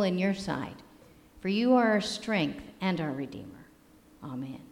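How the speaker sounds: measured, reverent opening prayer. Acted. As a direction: pray on behalf of the congregation. Leads the congregation in prayer.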